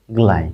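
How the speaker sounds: গ্লাই as one syllable, g straight into lai; pronunciation demo. Shown as a demonstration. Teacher demonstrates G-L-I for students, pronunciation demo. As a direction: model গ্লাই with a falling tune. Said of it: "গড়া উচ্চারণ করে".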